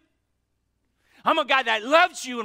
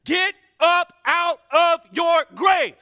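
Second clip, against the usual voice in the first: slow, higher, louder command; preacher yelling at the congregation to rise, loud; 8 semitones higher, 10 dB louder, slower than usual. Real, not acted. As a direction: shout them up out of the grave. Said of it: "And so I'm yelling at you today".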